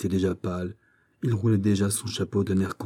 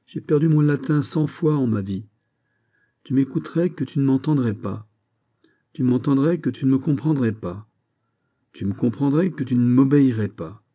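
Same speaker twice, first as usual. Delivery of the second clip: raised pitch, mounting insistence; exasperated lecture; 4 semitones higher than usual. Acted. Captain lecturing a youth who won't listen, exasperated. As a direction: pile up each point in exasperation.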